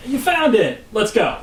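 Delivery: high, drawn-out "hey" of relief; mock-delighted cheer. Husband greeting the found bike, drawn-out cheer.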